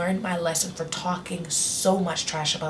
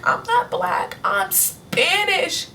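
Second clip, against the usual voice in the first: put-on childish protest; 11 semitones higher, much slower than usual. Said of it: "And I was like".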